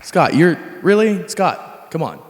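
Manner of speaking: reluctant, incredulous pleading; pleading protest. Acted. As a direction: beg your friend to let you off. Begs not to take his turn.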